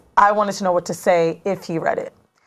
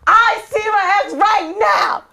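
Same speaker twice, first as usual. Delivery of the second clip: drawn-out high-pitched comic yell; exaggerated shrieking alarm; frantic announcement; 13 semitones higher, 3 dB louder, slower than usual. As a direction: wail it slowly to the group, hammed-up. Acts out frantic group chat text.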